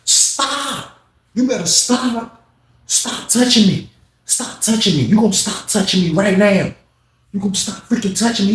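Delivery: high whiny protest. Retold or imitated. Retold inmate pushing someone off.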